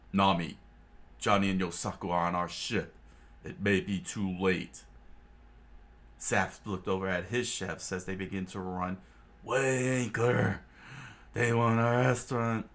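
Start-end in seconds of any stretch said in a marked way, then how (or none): 0.1-4.8 urgent shouted warning to a shipmate; yelled warning. Acted. Solo warns Nami the brothers are aboard, shouting. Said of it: "Solo yelled out". 9.4-12.7 higher, louder shouted command; rally the cooks with a shout; barked order. Acted. Head chef shouting orders to his cooks, loud.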